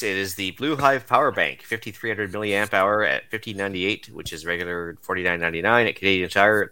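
lightly voiced safety nerd; a hint of a careful, nerdy reader. Shown as a demonstration. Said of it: "In my best safety nerd voice".

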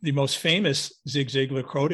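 normal talking voice

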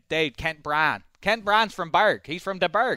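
lightly imitated Pittsburgh mom; Pittsburgh accent. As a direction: put on a Pittsburgh accent, voice lifting. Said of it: "She's a Pittsburgher".

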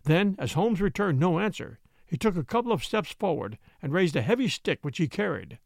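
plain reading voice

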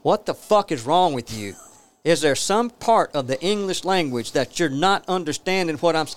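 exasperated telling-off, pitch climbing; retold angry outburst. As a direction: imitate yourself going off on someone. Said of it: "I went off on the guy".

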